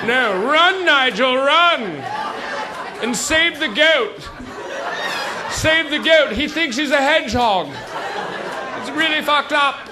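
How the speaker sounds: high, loud, frantic half-laughing yell; panicked shout. Retold or imitated. Frightened villager yells at Nigel to run, high panicked shouting. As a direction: scream at your friend to flee. Panicked flight from giant chicken.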